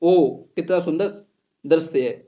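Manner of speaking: admiring wonder. Shown as a demonstration. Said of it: "ये भी सब मन के भाव में आएंगे".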